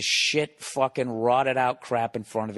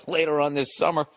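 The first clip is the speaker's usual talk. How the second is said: real laughing outburst; 4 semitones higher than usual. Real, not acted. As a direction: lose it mid-sentence and shout through. Breaks into shouting laugh.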